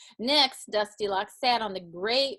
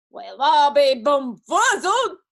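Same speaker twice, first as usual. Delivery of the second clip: loud, slow, higher growl; amazed bear growl; 4 semitones higher, 10 dB louder, slower than usual. A narrator's reading. Great big bear scratching his head, amazed growl. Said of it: "growled the great big bear".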